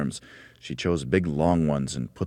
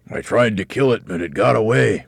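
louder, higher dramatic warning; mock alarm; 6 semitones higher, 7 dB louder than usual. A narrator's reading. Mr. Twit pretends a beast escaped, mock alarm. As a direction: play up the danger to scare her. Mr. Twit scares his wife.

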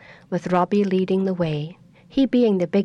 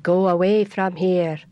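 haughty oak tree. Acted. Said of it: "the oak tree looked down and said".

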